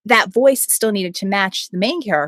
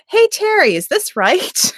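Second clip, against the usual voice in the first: high, rising call to get his attention; calling out a question; 11 semitones higher, slower than usual. Retold or imitated. Narrator checking with the author about a character, calling out high. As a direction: call across with a questioning lift at the end.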